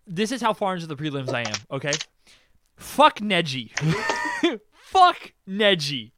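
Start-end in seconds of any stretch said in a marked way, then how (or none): 2.8-6.1 loud, emphatic cursing of a hated character; furious. Real, not acted. Fan cursing the anime villain he hates, furious. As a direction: spit it out slowly and loudly. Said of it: "I am furious right now".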